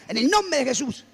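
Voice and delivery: acted rebuke with a swell on the key word; stern rebuke. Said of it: "otra vez yo reprendía".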